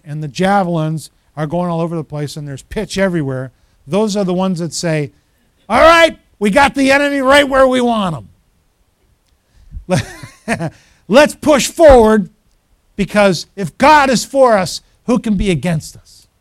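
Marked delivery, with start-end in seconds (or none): 5.7-16.3 loud, high battle cry to fellow believers; rally the troops, punching each phrase; acted fired-up call to push forward. Acting believers rallying the congregation.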